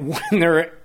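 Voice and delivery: P=A; laughing. Real, not acted. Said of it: "I can't stop laughing".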